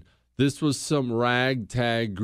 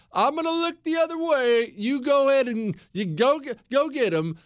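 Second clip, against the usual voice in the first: sly winking president; 10 semitones higher than usual. Retold or imitated.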